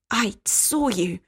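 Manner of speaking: slow, slithering menace; dangerous and low. Acted. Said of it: "Her voice slithered against him, dangerous and low".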